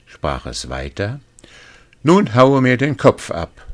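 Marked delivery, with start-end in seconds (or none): 2.0-3.6 little man. Acted.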